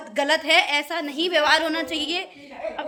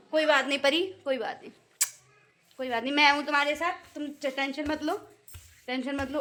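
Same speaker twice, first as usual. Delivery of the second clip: soothing Pari; 4 dB quieter than usual. Pretend. Comforting sad Pari.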